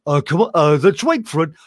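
chummy cartoon neighbour, mildly voiced; hint of a sneaky pal whispering; Barney voice. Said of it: "he was the voice of".

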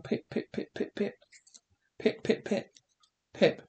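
hushed, repeated calls of the name; softly pleading for him to stay; desperate calling. Acted. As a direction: call after the boy in short, half-voiced bursts. Father begs boy not to leave.

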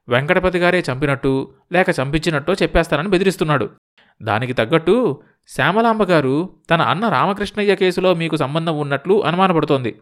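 pressing, worried informant; anxious visitor. Acted. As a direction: lay out the murder plot insistently. Voices visitor Ramadasu reporting.

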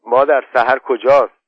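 put-on a boy calling for his mother, worried; boy Khosrow asking. Khosrow asks his mother where his horse is, anxiously.

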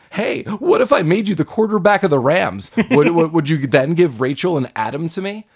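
a devil suddenly turning sleazy and chummy; mock tempting Satan leaning in the car window; weird hammed-up voice. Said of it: "like, in a weird voice".

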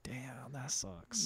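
deflated. Retold or imitated. Host reacts to the dad's no showbiz, deflated. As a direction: let it out under the breath, deflated.

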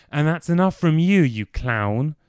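a hint of Alfred scolding; impression of Alfred. A friend imitates Alfred snapping at Dorian, mock scolding. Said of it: "the impersonations he had just managed".

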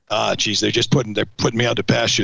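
lightly voiced impression of a grumbling veteran; a half-hearted go at mimicking a friend's complaint; Kent Peach. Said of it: "try to do it in his voice".

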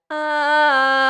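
bright pressed loud ah; pressed closed tone. Shown as a demonstration. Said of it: "that's gonna sound more like".

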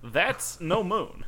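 slow high quote voice. Pretend. Obi-Wan quote.

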